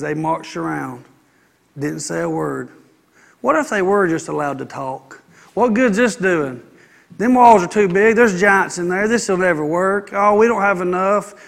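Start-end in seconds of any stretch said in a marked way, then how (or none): 5.5-11.3 whiny complaining murmur; lightly voiced complaining Israelites; mock grumbling. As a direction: gripe like a doubting crowd. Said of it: "they murmured and complained about everything".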